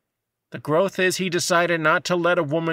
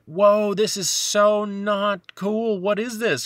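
shocked dismay; 7 semitones higher, slower than usual. Retold or imitated. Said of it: "I was like".

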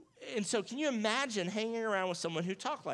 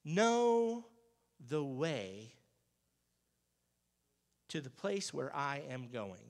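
dramatic scripture line; much slower than usual. Retold or imitated. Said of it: "He says".

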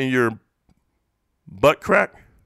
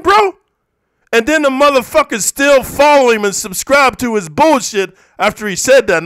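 louder, higher, angry father's rant; real outrage; 4 semitones higher, 4 dB louder than usual. Real, not acted. Father confronting a threat to his daughters, outraged. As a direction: demand an answer, voice rising in anger.

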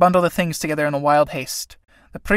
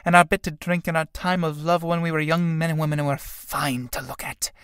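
complacent; 3 semitones higher than usual. Acted. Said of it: "Mary complacently".

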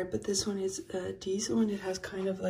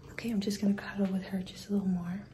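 quiet at night; 6 dB quieter, faster than usual. Real, not acted. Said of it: "I'm not gonna talk too loud".

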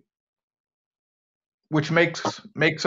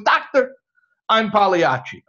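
raised, pleading punchline; exasperated confession; 6 semitones higher, 5 dB louder than usual. Acted. Patient finally confessing who he is to the doctor, exasperated. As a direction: cry out high, then come down on the reveal.

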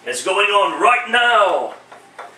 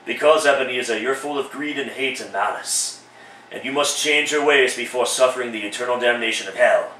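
lower, solemn spirit voice; lightly voiced solemn ghost; low ghost of present; 6 semitones lower than usual. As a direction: preach the parable as the spirit.

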